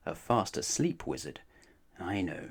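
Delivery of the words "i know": giggling. Acted. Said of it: "giggled Mister Mischief".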